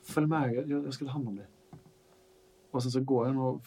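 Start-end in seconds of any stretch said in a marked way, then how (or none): 0.0-1.5 soft reassurance. Acted. NPC calming upset father.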